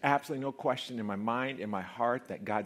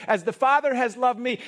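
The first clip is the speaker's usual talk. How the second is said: preached loud; 13 semitones higher, 13 dB louder than usual. Shown as a demonstration. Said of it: "third take, preached loud".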